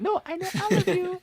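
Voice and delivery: "I know all of you" pitched very high and eerie; creepy menacing reading. Shown as a demonstration. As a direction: make it sound like a threat. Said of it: "And it's like".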